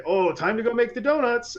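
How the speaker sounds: donut ad guy. Retold or imitated. Imitating the ad's early-rising baker, high catchphrase voice. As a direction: do the old commercial's baker. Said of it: "this fat guy with a mustache".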